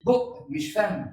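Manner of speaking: بق مش فم said very slowly, بق stressed as the right word; slow corrective demo. Shown as a demonstration. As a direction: slowly set بق against فم for parents. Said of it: "أنا المفروض أقول إيه؟". (نطق بق مش فم ببطء وتأكيد)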